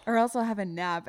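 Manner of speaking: a light, lilting upscale English lilt on a nap; mock upscale English. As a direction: say it like a posh English gent, lightly. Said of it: "it almost sounds like upscale English or something".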